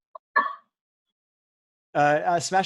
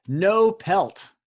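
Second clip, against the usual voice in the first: punchy announcement; 4 semitones higher, 6 dB louder than usual. Acted. Host announces anagram clue.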